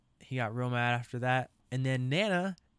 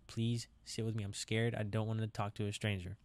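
put-on scared child voice; 4 dB quieter than usual. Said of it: "Your mom".

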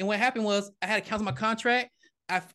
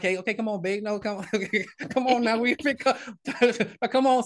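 coaxing; 3 semitones higher than usual. Retold or imitated. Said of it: "I'm trying to be the man".

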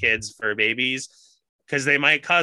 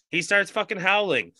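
laughing; 6 semitones higher, 7 dB louder, much slower than usual. Real, not acted. Telling dog howling, laughing.

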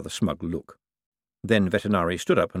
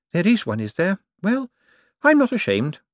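put-on much higher, cackling old woman voice; cheeky old lady; 11 semitones higher, 4 dB louder than usual. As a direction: play a sharp old dame with no fear. Topsy answers Death.

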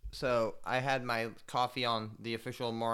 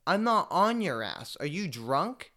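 retold shout back; 7 semitones higher, 6 dB louder, slower than usual.

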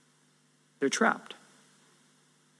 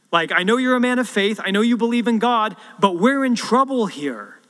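higher and louder, insistent and worried; alarmed servant; 5 semitones higher, 4 dB louder than usual. Acted. Servant pleading with Elisha that the odds are hopeless, alarmed and loud. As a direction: press the prophet with frantic doubt.

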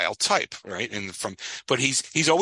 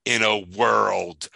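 eerie reply; 3 semitones lower, 4 dB louder, much slower than usual. Retold or imitated. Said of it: "and says".

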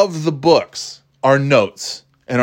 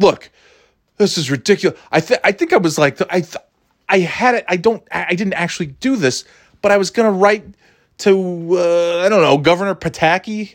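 mock-indignant complaint, pitched higher; Karen energy; 5 semitones higher than usual. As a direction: complain like an entitled customer demanding action. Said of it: "some big fucking Karen energy".

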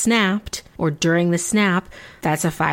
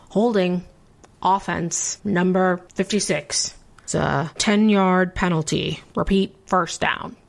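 referee announcing a penalty. Shown as a demonstration. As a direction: call the penalty like a ref. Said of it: "That was my referee voice".

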